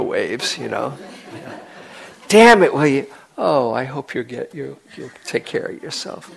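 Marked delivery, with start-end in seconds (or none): 2.3-3.1 louder, higher irritated snap in fun; mock annoyance. Teacher mocks being bothered by a neighbour's thoughts, annoyed outburst. Annoyed at imagined meditator behind. 3.4-6.3 kind wish. Pretend. Kind wish after mock annoyance.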